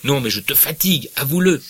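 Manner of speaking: Pécuchet accuses Bouvard of being tired of him, loud and bitter; bitter reproach. Acted. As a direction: force him to admit it. Acted quarrel, Pécuchet bitter.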